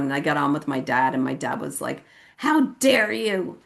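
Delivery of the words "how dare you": higher, slow acted protest; tearful reproach. Dad on the phone to daughter, acted tearful reproach. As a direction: imitate a crying father, stretching the words. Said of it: "He was crying".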